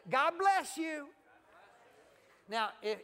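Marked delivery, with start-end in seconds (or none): 0.1-1.1 loud, high, slow blessing; big drawn-out exclamation; demonstrated blessing. Shown as a demonstration. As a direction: call it out with gusto for others to copy. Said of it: "now say it like this".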